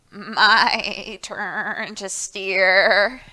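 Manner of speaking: put-on sighing old goat. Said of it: "sighed Old Goat".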